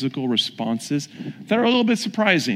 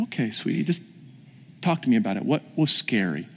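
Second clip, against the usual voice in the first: low, tender coaxing; gentle reassurance; 3 semitones lower than usual. Retold or imitated. Pastor to student on a bench, gentle reassurance. Comforting a shaken student, retold.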